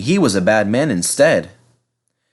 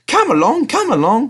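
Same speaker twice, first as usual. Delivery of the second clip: high, loud puffing call; puffing engine; 3 dB louder than usual. Acted. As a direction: chug out the words like a steam engine. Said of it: "he puffed".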